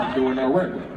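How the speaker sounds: laid-back low smooth talker. Pretend. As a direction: play it cool and low, brother. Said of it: "I'll speak like this".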